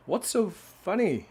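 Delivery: slow, high cow voice. Acted. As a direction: ask it slowly as the cow. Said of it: "what's, I read that, Missus Mooley".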